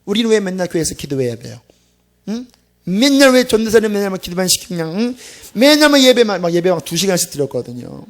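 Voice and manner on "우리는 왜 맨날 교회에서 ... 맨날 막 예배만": whining students. Retold or imitated. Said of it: "아이들이 이렇게 막 세상 같아 돌아오면요".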